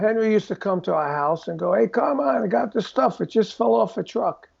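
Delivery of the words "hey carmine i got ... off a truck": higher wiseguy offering stolen goods; playful imitation of a fence; mock mobster. Henry Hill voiced selling goods.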